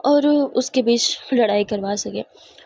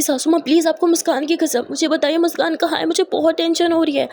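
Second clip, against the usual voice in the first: higher-pitched, lightly acted plea; anxious pleading; 5 semitones higher than usual. Daughter-in-law begs mother-in-law about missing Muskan, anxiously pleading. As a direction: beg her for an answer.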